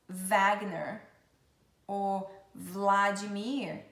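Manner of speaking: "Wagner" starting with a clear v; W sounded as V. Shown as a demonstration. Teacher showing W as V, "Wagner" with v. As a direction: say "Wagner" as VAG-ner. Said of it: "tem um som de V".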